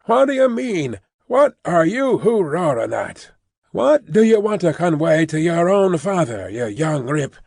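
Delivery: father scolding his son after striking him, angry. Acted. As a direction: tell the boy off hard.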